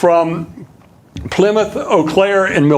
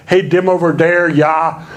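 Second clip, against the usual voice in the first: a light mock Wisconsin accent; hint at a stereotyped Wisconsin accent. Lecturer quoting a Wisconsin cliché to the audience, mock local accent. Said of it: "even with no stereotype".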